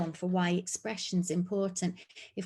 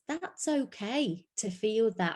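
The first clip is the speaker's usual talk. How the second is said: put-on slow, gentle reassurance to a child; reassuring; 3 semitones higher, slower than usual. Shown as a demonstration. Counsellor comforting an upset child, slow and gentle. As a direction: soothe them as you say it. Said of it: "using key terms such as".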